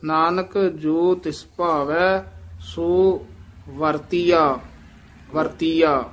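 ਨਾਨਕ ਜੋ ਤਿਸ ਭਾਵੈ ਸੋ ਵਰਤੀਆ recited slowly, ਵਰਤੀਆ whole and falling; slow teacher's demo, ਵਰਤੀਆ said as one word; model recitation. Shown as a demonstration. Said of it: "ਇਸ ਤਰ੍ਹਾਂ ਹੀ ਬੋਲਣਾ".

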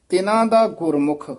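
ਤਿਨਾਂ ਦਾ ਗੁਰਮੁਖ, then a full rest; pause after ਗੁਰਮੁਖ. Shown as a demonstration. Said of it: "ਇੱਥੇ ਵਿਸਰਾਮ". (ਗੁਰਮੁਖ ਤੋਂ ਬਾਅਦ ਵਿਸਰਾਮ)

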